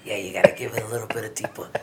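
hushed, fast whisper. Real, not acted. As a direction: say it low like a secret. Coaching a creepier delivery, whispered.

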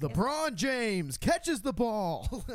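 slow, drawn-out play-by-play; sports announcer voice. Pretend. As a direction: announce it like a TV commentator. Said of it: "let me get my narrator voice out".

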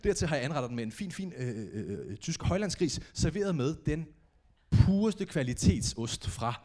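a hint of a snooty waiter; mock waiter presentation. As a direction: present cheap toast like fine dining. Serving toast like a chef.

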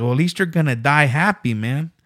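put-on driver's punchline in a light Mexican accent; lightly put-on Mexican accent; Mexican accent impression. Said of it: "stereotypical Mexican accent".

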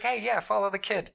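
high, breezy mock scientist voice; lightly voiced alien observer; mock alien researchers. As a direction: play a casual alien tagging a specimen. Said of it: "They're, they're like".

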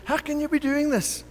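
acted outrage of the self-righteous brother; mild indignant brother voice; indignant older brother. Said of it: "looking at the father with indignation and says".

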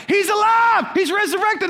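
high, loud mock-miracle cry; jubilant shout. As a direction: proclaim a miracle to the whole party. Retold cheer as fish revives.

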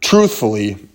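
throat tickling, about to cough; coughing fit. Real, not acted. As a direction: voice catching before a cough. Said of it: "apologize for the coughing, guys".

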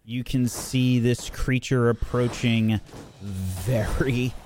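slow, emphatic, suspenseful storytelling; game master narration. Acted. Game master describes the attack on Teriel, suspenseful narration. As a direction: stretch key words as the creature closes in.

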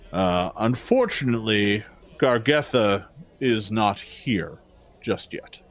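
lightly voiced formal orc; orc guard. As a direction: speak as a wary but courteous gatekeeper.

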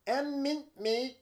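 lightly Australian, high and slow; a touch of Australian twang; mock Aussie accent. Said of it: "That sounded Australian".

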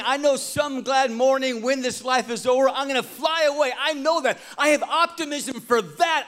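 lightly voiced Martha, sure of heaven; a hint of confident Martha. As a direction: voice her certainty about the last day.

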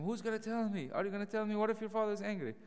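high, fast anxious pleading; David frantic, begging Jonathan for help; panicked David. Retold or imitated. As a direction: rush it out like a scared man. Worried David, speaker names volume.

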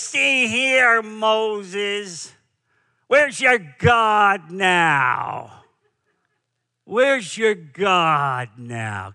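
imitating Edward G. Robinson's Jewish Brooklyn accent, slow and taunting; a light Jewish Brooklyn accent, drawn out slowly; a hint of a Jewish Brooklyn accent, mocking Moses. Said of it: "in his famous Jewish Brooklyn accent".

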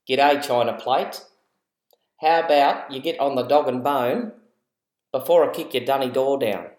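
broad Aussie slang, mildly put on; a light Ocker Australian twang; Ocker Australian accent. Shown as a demonstration. Aussie parent hamming up Ocker slang in the car. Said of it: "that was Ocker English".

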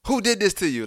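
high-pitched, demanding mother; acted-out mom, pitched well up; retold alarmed mom. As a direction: question your hurt child in alarm. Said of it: "my mom's was like".

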